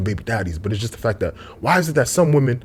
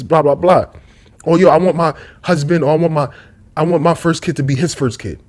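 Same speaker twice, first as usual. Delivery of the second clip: lightly voiced woman, higher at the start; mock her turning him down; imitating a dismissive woman; 4 semitones higher than usual. A woman rejecting a man with kids, mildly mocking. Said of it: "they gonna view you as".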